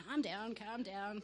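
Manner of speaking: slow, drawn-out soothing words; slow right down to settle someone; retold calming. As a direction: imitate a patient calming voice. The Lord soothes the teller.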